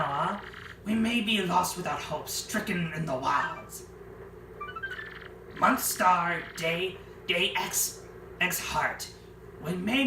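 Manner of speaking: diary narration. Acted. Flavio writes his castaway diary, solemn reading. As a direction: read it like a castaway's log.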